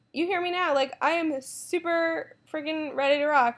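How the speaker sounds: bursting with energy; hyped and energized. Real, not acted. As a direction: pitch jumps way up, slowing on ready to rock. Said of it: "I'm so energized".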